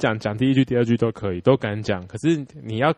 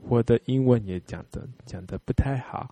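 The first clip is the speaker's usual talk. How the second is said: put-on Japanese accent; 3 dB quieter than usual. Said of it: "你用日本人讲中文".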